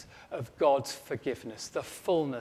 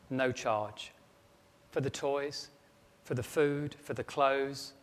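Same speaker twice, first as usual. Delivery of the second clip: tender mother. Acted. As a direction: let each no charge land gently. Mother writes her reply list.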